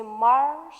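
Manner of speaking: three beats on "marshmallow" with long gaps; syllable by syllable. Shown as a demonstration. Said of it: "So it has".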